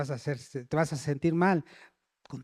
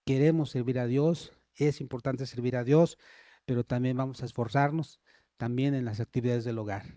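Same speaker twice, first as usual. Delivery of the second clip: a touch lower, humble and sincere; humble agreement; 4 semitones lower than usual. Shown as a demonstration. Children answering scolding parents, humble and sincere. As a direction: answer your father respectfully. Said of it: "que los hijos digan".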